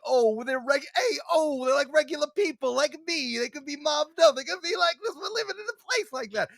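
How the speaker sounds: high, excited Jersey voice; Italian American accent. Retold or imitated. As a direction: gush it like a starstruck local. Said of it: "is like".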